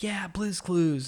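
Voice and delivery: put-on high, slow, drawn-out kid voice; eager little boy. Dad imitating his son happily agreeing to Blue's Clues, high and drawn out. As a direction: stretch it out like a delighted toddler. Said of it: "And he's like".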